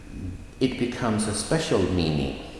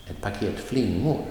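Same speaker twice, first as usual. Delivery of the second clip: light on Ett paket, lean on flingor; stress on flingor. Shown as a demonstration. Teacher models an example phrase, stress on flingor. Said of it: "the noun will get the emphasis".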